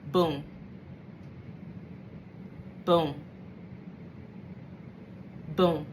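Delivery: each boom low and apart; son's slow ideas, boom by boom; slow spaced booms. Retold or imitated. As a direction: let long pauses fall between booms. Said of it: "My ideas come to me like".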